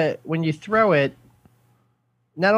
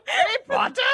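put-on much higher, hammy mangled British accent; Hagrid accent impression. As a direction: squeal the name in a bad accent.

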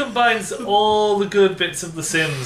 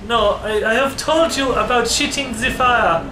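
higher, hammed-up scolding in faked French; mock French accent; 4 semitones higher than usual. Ambassador scolding dragon son for breathing fire, mock French accent. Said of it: "Go back to French".

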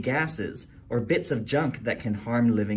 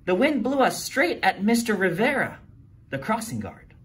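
put-on alarmed kid; 9 semitones higher than usual. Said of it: "Phoebe called".

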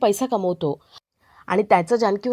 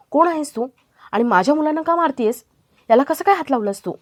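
higher-pitched, mildly indignant challenge; indignant confrontation; 5 semitones higher, 4 dB louder than usual. Acted. Janki confronts Maya for hitting the children, mildly indignant. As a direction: demand answers with a touch of outrage.

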